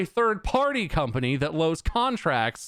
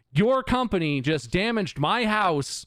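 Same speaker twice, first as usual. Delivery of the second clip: higher, indignant retold complaint; losing it; 5 semitones higher than usual. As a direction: drag out the accusation, pitched up. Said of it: "where I start to lose it".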